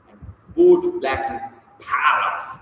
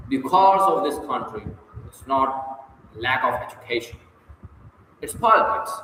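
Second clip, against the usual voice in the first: quoted speaker leaning on "cause" and "lack", with "politics" pitched up; stress on key words. A narrator's reading. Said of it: "He emphasized".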